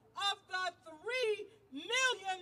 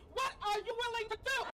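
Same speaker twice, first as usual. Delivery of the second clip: rally call-out; 3 semitones higher, faster than usual. Real, not acted. Call and response with crowd.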